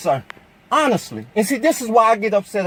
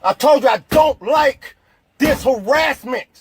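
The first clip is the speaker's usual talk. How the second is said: shouting; 2 semitones higher than usual. Real, not acted. Shouting at the officer.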